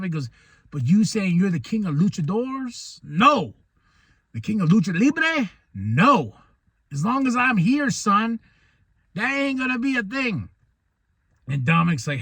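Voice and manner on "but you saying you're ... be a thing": a hint of a stern father, raised; Rey lecturing his son, lightly voiced. Rey tells Dom off, a lightly voiced stern father.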